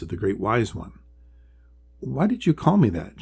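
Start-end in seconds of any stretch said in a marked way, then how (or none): 2.0-3.2 small Polly voice. Acted. Polly the small turtle asks.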